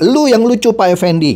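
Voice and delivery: mocking retort, jumping high at the start; imitated jibe. Vlogger voicing a commenter's dig at a pastor, mildly sarcastic. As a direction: imitate someone needling, high opening then dropping. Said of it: "Nah, dia nyindir".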